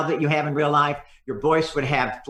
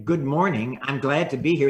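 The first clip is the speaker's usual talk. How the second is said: smiling greeting. Shown as a demonstration. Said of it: "it's gotta sound like this".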